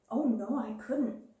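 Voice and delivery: put-on a young schoolgirl insisting she's hopeless; girlish protest. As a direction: plead you can't, slowly and shyly. Timid girl protests inability.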